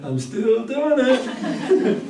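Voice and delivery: put-on high, slow, delighted child's voice; proud toddler. Toddler proudly tells parents it is still standing, high and slow. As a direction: stretch it out slowly like a thrilled toddler. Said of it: "and the child's going".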